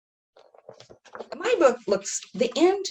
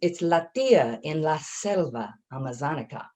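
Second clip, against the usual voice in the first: Spanish title read aloud. Shown as a demonstration. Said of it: "In Spanish".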